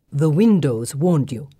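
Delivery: slow, low and measured. A narrator's reading. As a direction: repeat it slowly, doubting. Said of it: "Kartik repeats slowly".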